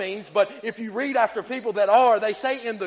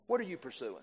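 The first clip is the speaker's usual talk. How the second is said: hushed question; 5 semitones lower, 12 dB quieter, faster than usual. Acted. First ask, near hush.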